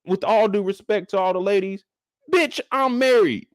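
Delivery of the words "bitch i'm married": slow, pointed indignation; indignant. Acted. Wife snapping at a friend's pushy guest, slow and indignant. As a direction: spell it out, offended.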